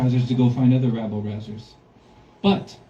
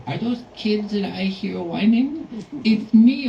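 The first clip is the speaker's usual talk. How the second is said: menacing monster; 7 semitones higher, slower than usual. Acted. Panta Kozak at the kids' door, eerie, creeping monster voice. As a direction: creep up on the children, then spring out.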